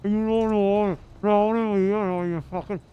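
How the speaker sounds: mock-aggressive Welsh ranting; put-on Welsh accent, worked up. Shown as a demonstration. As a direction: stumble angrily through a Welsh accent. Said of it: "like, aggressive Welsh".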